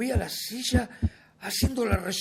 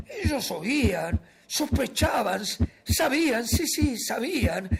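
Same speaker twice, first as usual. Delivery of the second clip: higher, agitated insistence; paranoid alarm; 4 semitones higher, 4 dB louder than usual. Acted. Murderer sure the officers know, paranoid alarm. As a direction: press each word with growing alarm. Narrator convinced the agents know.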